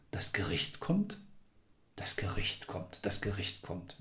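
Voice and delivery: hushed, breathy whisper of dread; whispered repetition. A narrator's reading. Iwan repeating the verdict to himself in a whisper. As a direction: murmur it over and over under your breath. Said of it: "wiederholte er sich".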